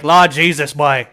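put-on a thick Newfoundland twang on Lord Jesus, boy; Newfoundland accent. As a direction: toss off a Newfoundland accent, loud. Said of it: "that accent is very thick".

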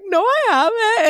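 high, indignant no; mock defensive denial. Client denying therapist's point, high and indignant. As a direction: protest like you've been accused.

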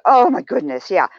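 light, upbeat praise; encouraging tone. Shown as a demonstration. Coach demonstrating kind praise for an imperfect result, lightly upbeat. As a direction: cheer them on gently for doing something. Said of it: "it's your tone".

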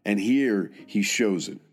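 measured military history narration; scripted narration. Real, not acted. Narrator telling listeners of a soldier's service, measured scripted narration. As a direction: narrate in steady, deliberate phrases with set pauses.

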